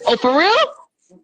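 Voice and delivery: slow, high for real; incredulous. Retold or imitated. Helen asks slowly in mock disbelief, pitched high. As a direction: drag out the disbelief. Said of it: "Helen's like".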